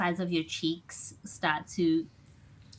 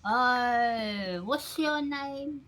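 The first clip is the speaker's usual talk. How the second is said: higher, drawn-out bar-regular voice; mouth-full character voice; 6 semitones higher, much slower than usual. Acted. Bar regular asking a newcomer's name, high and mouth-full. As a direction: speak as if something is stuck in your mouth. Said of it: "Did you stick something in your mouth to, to speak like this?".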